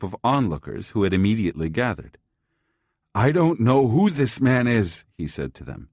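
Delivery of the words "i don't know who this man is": put-on high, loud pleading old man; frantic old man. A narrator's reading. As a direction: cry out to the crowd for help. Old man accusing, to crowd.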